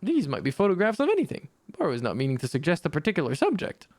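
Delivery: lightly voiced, formal tea-shop spirit musing; Boro's voice. Boro muses to Alta about tea. Boro proposes photo memories.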